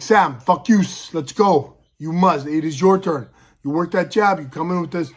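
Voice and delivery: lightly voiced coach urging a fighter; coach on the sideline. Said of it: "he's coaching on the sideline".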